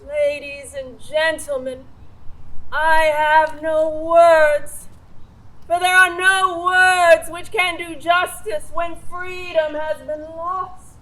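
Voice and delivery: mother showing the eulogy delivery; grave speech. Shown as a demonstration. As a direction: model the grief speech for him. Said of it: "you will begin to speak".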